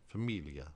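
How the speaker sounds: familia with ly, fa-MEEL-ya; Italian gli as ly; Italian gli sound. Shown as a demonstration. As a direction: say familia with the ly glide. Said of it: "similar to the double L in million".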